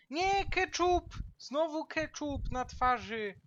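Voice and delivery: high loud cry of despair; frustrated shout. Real, not acted. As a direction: yell in dismay. Shout at being hit again.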